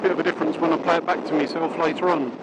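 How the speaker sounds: muffled inside a closed helmet; talking behind a shut visor. Real, not acted. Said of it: "now I've just clicked me, um, visor down".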